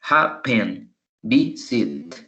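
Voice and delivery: "Happen" and "visit" each split into two beats; hap-pen, vi-sit, each syllable set apart. Shown as a demonstration. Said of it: "son verbos que tienen dos sílabas".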